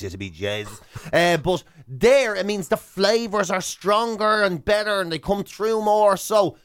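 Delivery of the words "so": mock toast. Mock toast as the world burns.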